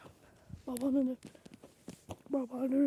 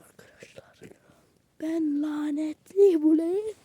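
conspiratorial whisper to the viewers; 2 semitones higher, 4 dB louder than usual. Real, not acted.

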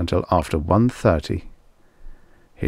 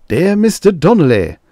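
a touch of tired sighing; weary sigh; 11 semitones higher, 7 dB louder than usual. A narrator's reading. A weary producer facing another letter, sighing. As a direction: let it out like one letter too many. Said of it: "the producer sighed again".

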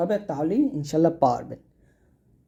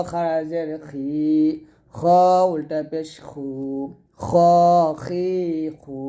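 slow recitation drill; 3 dB louder, slower than usual. Shown as a demonstration. Teacher recites madd letters drill.

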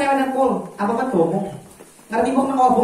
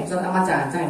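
echoed back more softly; softer repeat; 3 semitones lower, 5 dB quieter than usual. Shown as a demonstration. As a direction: say it again, dropping the voice. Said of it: "repeated softer". (diulang lebih pelan)

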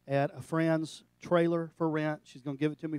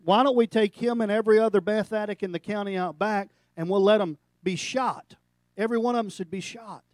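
loud, higher, contemptuous advice; loud scornful pastor; 5 semitones higher, 7 dB louder than usual. Retold or imitated. Retelling a pastor's scorn, loud and contemptuous. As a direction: bellow it like a scornful preacher.

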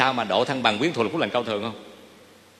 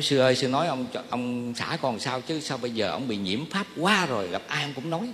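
wife complaining; 5 dB quieter than usual. Retold or imitated. Wife complains to the monk about her husband, softly voiced. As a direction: lightly voice the wife's quiet grumble to the monk.

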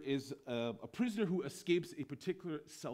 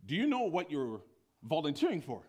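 raised, incredulous question; pitched-up astonishment; bewildered commandant; 4 dB louder than usual. Acted. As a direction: question the volunteer in acted disbelief. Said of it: "bewildered, shocked, and awe".

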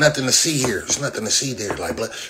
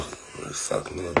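whispered refusal; 3 semitones lower, 12 dB quieter than usual. Real, not acted. Repeating his refusal.

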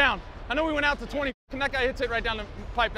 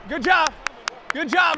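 loud praise; 2 semitones higher, 6 dB louder, slower than usual. Real, not acted. Praising teammates after a play.

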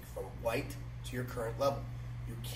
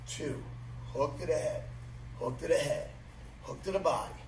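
crisp drill calls, punchy rhythm; boxing coach calling combos. Real, not acted. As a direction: call each strike on the beat.

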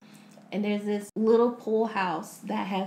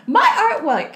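high, louder "My art what?"; louder outrage; 7 semitones higher, 10 dB louder than usual. Retold or imitated. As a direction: push the offense harder the second time. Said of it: "And she's like".

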